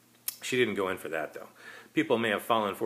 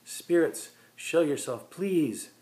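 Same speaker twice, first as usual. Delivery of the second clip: summoning call; 9 semitones higher, 5 dB louder, much slower than usual. Acted. Medium calls spirits.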